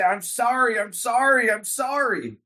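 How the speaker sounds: a hint of a pleading offender; mildly voiced apology. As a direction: lightly act out a repeated apology. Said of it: "they come to you and say".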